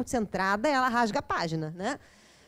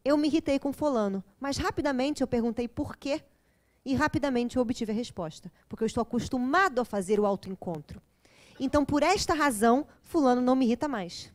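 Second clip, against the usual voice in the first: calm reflective. Retold or imitated. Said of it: "Você fala assim".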